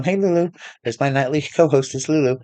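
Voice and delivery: real affectionate hello to a dog; greeting a pet. Real, not acted. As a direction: call fondly to the dog.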